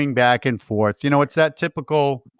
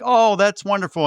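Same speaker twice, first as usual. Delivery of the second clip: higher-pitched mock admiration; imitating the wife; 5 semitones higher than usual. Retelling Bert's wife reacting to his plan, mock admiration. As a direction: lift it into put-on approval.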